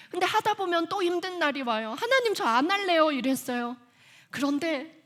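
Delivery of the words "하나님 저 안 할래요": high, loud mock protest; acted-out outburst of quitting; retold whiny refusal. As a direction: refuse like a fed-up complainer.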